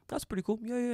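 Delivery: high-pitched echoed approval; mock agreement. Jordan echoing the guests' reply, high mock agreement. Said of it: "I go".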